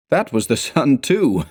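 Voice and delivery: laughing a trifle too heartily; boisterous laughing. A narrator's reading. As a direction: toss it off with a forced boisterous laugh. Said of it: "I laughed, a trifle boisterously".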